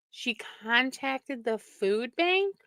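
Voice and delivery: hushed, incredulous murmur; quiet disbelief. Real, not acted. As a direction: say it again to yourself, slowly. Repeats news in quiet disbelief.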